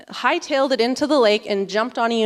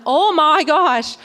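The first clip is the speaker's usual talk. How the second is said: dismayed; 5 semitones higher, 5 dB louder, much slower than usual. Retold or imitated. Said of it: "I'm like".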